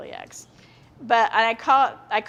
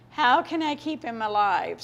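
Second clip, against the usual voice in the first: slow, pleading, a touch more strained; desperate repeat. Retold or imitated. Mother fearing for her dying son, pleading slowly. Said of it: "it's just like".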